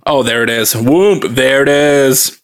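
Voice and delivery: slow gleeful whoop; delighted opening a present. Real, not acted. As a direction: savour the first pour happily. Opening the peanut butter stout.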